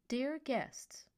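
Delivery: clipped automated announcement. Acted. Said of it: "an automated voice spoke in a clipped official tone".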